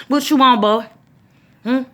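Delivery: a fed-up mother hollering from another room; mock exasperated mom shouting back; mom yelling back. Mom answering the kid.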